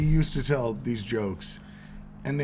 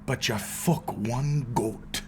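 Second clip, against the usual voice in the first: deadpan punchline; 3 dB quieter, much slower than usual. Acted. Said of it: "It was the way you said it".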